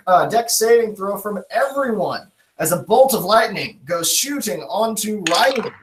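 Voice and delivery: dramatic game master narration. Acted. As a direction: sweep through the spell's impact. Game master describes the spell striking.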